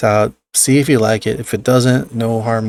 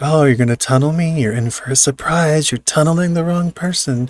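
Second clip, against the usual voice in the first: acted-out playful, silly teasing, high-pitched; 5 semitones higher than usual. Retelling own words to a tunneling killer in the game: imitating own silly taunt. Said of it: "I'm being silly".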